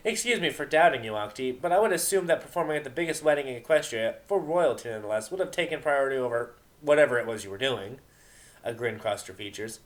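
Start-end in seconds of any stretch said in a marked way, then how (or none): 0.0-8.0 lightly voiced Vinyl. Vinyl voiced taunting Octavia.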